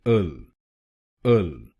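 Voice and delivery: अल repeated twice as a short firm syllable; syllable demo. Shown as a demonstration. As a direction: model अल, not ई एल. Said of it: "इसको बोलिए". (शब्दांश अल दो बार साफ़ बोलें)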